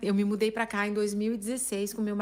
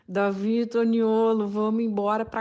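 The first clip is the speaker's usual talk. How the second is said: through teeth. Retold or imitated. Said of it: "falei entre os dentes".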